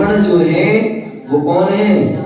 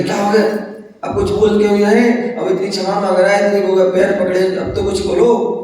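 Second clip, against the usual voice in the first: higher, quick retold appeal; moved, urging; 4 semitones higher, faster than usual. Moved Sita urges silent Ram to answer, lightly acted urgency. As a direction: press for an answer, fast and high. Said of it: "अब फिर सीता जो है द्रवित हो गई".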